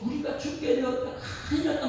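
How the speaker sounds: high, frantic cry that they are dying; panicked disciples. Acted. Disciples crying out in the storm, high panic.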